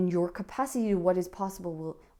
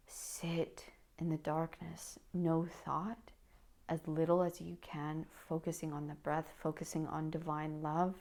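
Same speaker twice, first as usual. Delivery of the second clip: guided meditation. Acted. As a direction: guide them gently inward. Leads a meditation.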